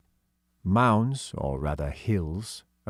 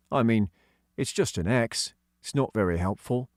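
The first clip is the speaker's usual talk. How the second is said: put-on a touch higher for young George; hint of a kid's voice; lightly voiced schoolboy George; lightly voiced boy; 3 semitones higher than usual. Child voice.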